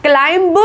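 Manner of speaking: क्लाइंब with the b sounded, "klime-buh"; wrong pronunciation demo. Shown as a demonstration. Teacher showing the error, mispronounced. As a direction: add a voiced b to क्लाइंब. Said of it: "नहीं बोलेंगे".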